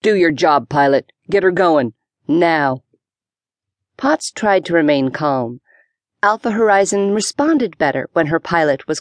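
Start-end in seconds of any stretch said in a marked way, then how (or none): 0.0-2.8 growled. Acted. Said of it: "The commander growled".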